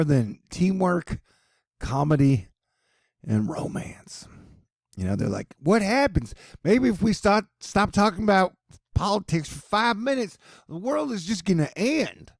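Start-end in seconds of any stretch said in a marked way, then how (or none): 5.6-12.3 high-pitched mock alarm; hammed-up high anxious voice; mock worried public. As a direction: imitate people fretting, voice pitched up. Mock panicked quote of worried people.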